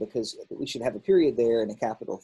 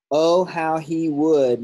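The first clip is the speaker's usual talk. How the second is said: exclamatory reading; 4 semitones higher, 6 dB louder, much slower than usual. Shown as a demonstration. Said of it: "exclamation point".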